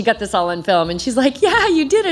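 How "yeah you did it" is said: excited reassurance. Retold or imitated. Friend confirms she finished.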